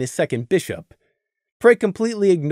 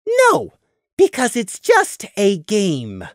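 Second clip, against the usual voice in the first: bitter; 3 semitones higher, slower than usual. A narrator's reading. Prey's final bitter point.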